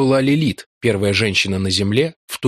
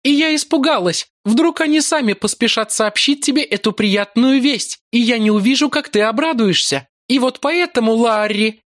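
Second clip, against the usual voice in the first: seductive priestess voice; 12 semitones higher than usual. A narrator's reading. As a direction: purr it like a cruel seductress. Yolara's mock-sweet explanation. (высокий голос коварной соблазнительницы)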